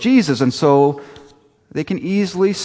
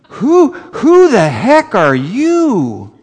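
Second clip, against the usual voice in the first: Buddy the elf; 9 semitones higher, 6 dB louder, much slower than usual. Retold or imitated. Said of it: "Here's Will Ferrell".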